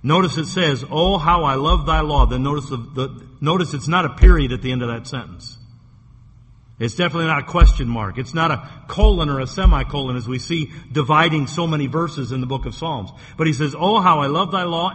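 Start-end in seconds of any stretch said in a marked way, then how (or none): 0.9-2.3 vibrant. Shown as a demonstration. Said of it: "he's very vibrant when he says that". 13.7-14.9 a louder, lifted cry of love; exclamatory. Shown as a demonstration. Preacher shows David's excited cry, proclaiming. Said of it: "and it's an exclamation point".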